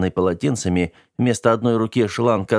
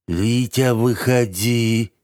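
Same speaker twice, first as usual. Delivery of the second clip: slow, drawn-out bubbling call through the door; gurgling slimy voice; 3 semitones higher, much slower than usual. A narrator's reading. Dirt agent calling the boy from behind the door, slow gurgling lure. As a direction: ooze the words like mud. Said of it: "Мерзкий шлёпающий голос пробулькал".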